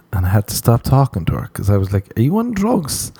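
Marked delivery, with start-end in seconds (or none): 2.2-3.1 high, baffled question; incredulous. Retold or imitated. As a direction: pitch it up in disbelief. Incredulous quote to the girl.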